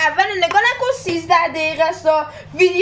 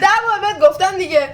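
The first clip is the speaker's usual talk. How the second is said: laughing while talking; 3 dB louder than usual. Real, not acted. Laughing mid-argument.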